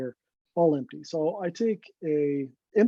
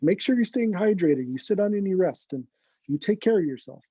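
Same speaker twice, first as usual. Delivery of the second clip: worried mother voice; 3 semitones higher than usual. Retold or imitated. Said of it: "I'm kinda turning into, like, you know, his, his mother".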